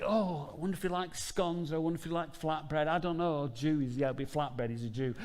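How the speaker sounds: high, fretful musing; fussing Martha. Retold or imitated. Preacher voicing Martha wondering about food. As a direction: dither over what to serve. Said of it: "And so she's busy".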